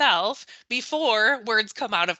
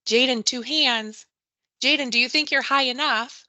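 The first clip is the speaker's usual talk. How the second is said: warning teacher tone; 4 semitones higher, 4 dB louder than usual. Retold or imitated. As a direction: caution a child who climbs too high. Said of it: "the teacher's tone changes a little".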